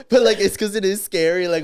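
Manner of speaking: real laughter; laughing. Real, not acted. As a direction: laugh through the words. Laughing while talking.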